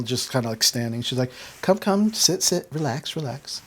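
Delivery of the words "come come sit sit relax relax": higher, urging in quick doubled words; coaxing hostess. Acted. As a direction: usher a guest to a seat, voice settling down. Gram hustles guest to sit.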